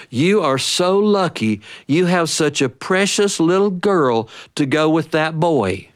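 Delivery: a hint of a sweet old lady gushing. Stranger gushing to mother, a hint of old lady voice.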